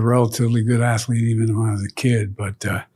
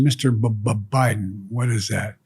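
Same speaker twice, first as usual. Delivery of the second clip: stutter imitation. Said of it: "I said".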